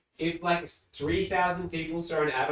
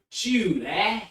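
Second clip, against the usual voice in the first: northern English call; 7 semitones higher, 7 dB louder than usual. Retold or imitated. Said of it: "neighbor who was from the north of England".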